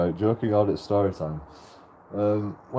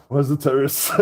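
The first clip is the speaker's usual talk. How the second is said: laughing quote; 2 semitones higher than usual. Retold or imitated.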